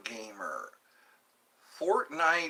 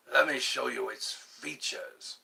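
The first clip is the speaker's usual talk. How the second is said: imitated Slingshot Channel accent. Showing how people imitate him, mimicked accent. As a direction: put on a hint of the host's accent. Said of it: "People always try to imitate him".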